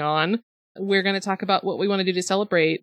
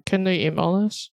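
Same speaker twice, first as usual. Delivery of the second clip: muffled, talking around a microphone; microphone in mouth. Real, not acted. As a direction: speak with the mic in your mouth. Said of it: "I'm putting the microphone in my mouth now".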